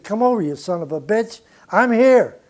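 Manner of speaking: mock tough-guy shout at the end; retold challenge.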